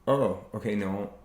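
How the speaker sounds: measured, considered reply with pauses; slow, careful. Shown as a demonstration. Speaker showing a careful answer to a partner, slow and considered. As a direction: take time over each phrase to show understanding. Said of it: "I'm talking very slow".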